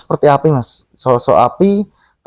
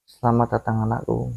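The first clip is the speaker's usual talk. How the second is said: mysterious voice; 4 semitones lower, 11 dB quieter than usual. Retold or imitated. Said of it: "Ada suara".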